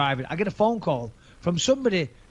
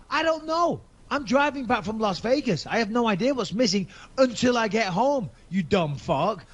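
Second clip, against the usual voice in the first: high, exasperated outburst; retold exasperated insult to the fake lawyer; exasperated snap; 5 semitones higher than usual. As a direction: blast him with disbelief.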